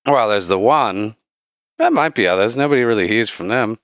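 lightly voiced local barkeep; knowing bartender. Bartender tells adventurers about the lich, lightly voiced character. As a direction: play a barkeep sharing common knowledge.

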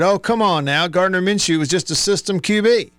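sarcastic. Retold or imitated. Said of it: "sarcastically said".

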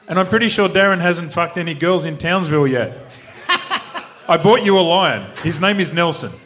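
put-on rough-and-ready South African accent. Racer accepting a wedding invitation, attempted South African accent. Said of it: "do it in the South African accent".

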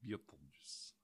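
very low, quiet Russian accent. Shown as a demonstration. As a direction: rumble it like a Russian. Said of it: "saying Beetlejuice in a Russian accent".

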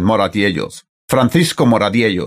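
full Spanish pronunciation of the name; Spanish accent. Shown as a demonstration. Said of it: "with the Spanish accent".

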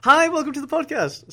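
high, loud hosty greeting. Acted. Opening the podcast for listeners, very loud high greeting. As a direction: blast the welcome out like a radio host. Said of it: "that's probably very loud".

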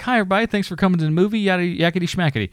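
lightly voiced director; mock director greeting. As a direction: parody a chipper welcome speech. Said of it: "he's like".

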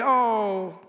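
mock the too-saintly reply; light sanctimonious tone; mock pious. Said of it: "you say".

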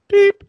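very high loud beep of beep; teal whistle beep. Shown as a demonstration. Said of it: "make a beep".

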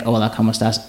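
lightly mocked gringo Spanish accent; mock bad Spanish accent. Shown as a demonstration. Making fun of own Spanish to friends, mock gringo accent. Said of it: "I put on when I make fun of it".

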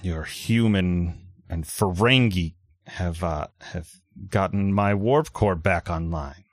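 lightly gruff Klingon commander; a hint of a gruff Klingon warrior. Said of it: "you hear a gruff Klingon voice".

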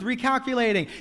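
recalculating as gentle correction, not condemnation; loving recalculating. Shown as a demonstration. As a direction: say recalculating kindly, with goodness. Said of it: "not with condemnation, with goodness, with love".

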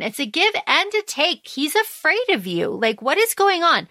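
high, indignant disbelief at a friend's choice; outraged disbelief. Retold or imitated. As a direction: demand to know if she's lost her mind. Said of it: "Rain is like".

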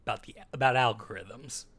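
smooth campaign-trail pitch to a voter; folksy pandering politician. Pretend. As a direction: talk like a politician selling a plan. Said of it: "I like Dan's politician voice".

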